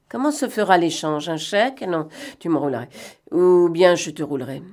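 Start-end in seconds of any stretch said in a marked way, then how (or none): none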